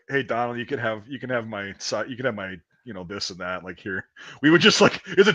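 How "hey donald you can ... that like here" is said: softer, lower, pitying offer. Retold or imitated. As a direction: hand him your food out of pity. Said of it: "We're like".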